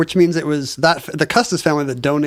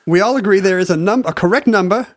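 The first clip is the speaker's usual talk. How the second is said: put-on Southern accent; 3 semitones higher than usual. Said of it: "I love how your Southern accent".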